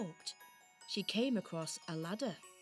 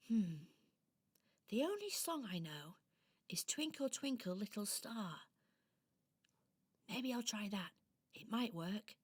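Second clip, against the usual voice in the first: softer doll voice, thinking aloud; pondering little doll; 5 dB quieter than usual. Acted. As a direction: wonder to yourself as a little toy.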